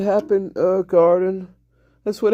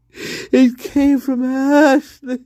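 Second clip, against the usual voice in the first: slow, higher mock sob; fake crying; 4 semitones higher, much slower than usual. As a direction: cry it out like a hammy drama. Mock-tragic repeat of the accusation.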